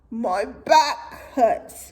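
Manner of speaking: slow whine with a laugh; whining camel. Acted. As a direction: drag out the complaint. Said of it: "whined Calamity".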